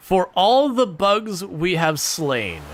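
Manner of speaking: slow, lofty proclamation; solemn vow. Acted. Player honouring slain bugs, slow solemn proclamation. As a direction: declaim it like a warrior's oath.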